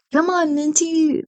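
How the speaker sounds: playful high scold at herself; mock self-scolding. Real, not acted. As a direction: tease yourself, a little exasperated. Scolding herself mid-ramble.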